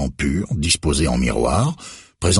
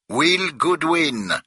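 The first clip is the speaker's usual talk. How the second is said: each syllable of "Will Goodwin" split apart, slow and annoyed; syllables detached; 13 semitones higher, much slower than usual. A narrator's reading. Director repeats his name to Becker, slow and annoyed. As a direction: spell out "Will Goodwin" slowly, irritated. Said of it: "en détachant chaque syllabe, visiblement agacé".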